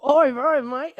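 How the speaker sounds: a hammed-up British bloke; playful British accent attempt. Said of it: "In the best British accent you can give us".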